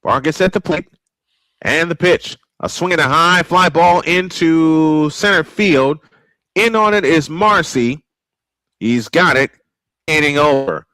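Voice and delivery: radio baseball announcer calling the game; steady play-by-play announcer voice. Acted. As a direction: call it like a ballpark broadcaster.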